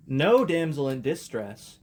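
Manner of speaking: slow, odd alien reading. Real, not acted. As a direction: read it like an alien. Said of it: "I read it like an alien".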